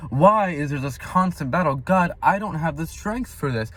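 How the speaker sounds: mildly exasperated complaint, pitch lifted; frustrated plea. Retold or imitated. Frustrated Christians questioning God, mild exasperated plea. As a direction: voice a touch of weary protest to God. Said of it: "I feel frustrated because we're like".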